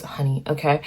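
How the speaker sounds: unvoiced whispered aside. Real, not acted. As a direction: drop to a whisper, just for them. Quiet aside to viewer.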